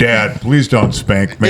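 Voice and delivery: slow mock little-boy plea in a man's voice; hammed-up slow begging; deep-voiced child. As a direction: plead like a child with a grown man's voice. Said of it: "Was your voice always like this, this deep?".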